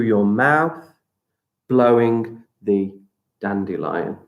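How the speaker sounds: guided breathing. Acted. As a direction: guide the breath calmly, stretching words. Leads breathing exercise.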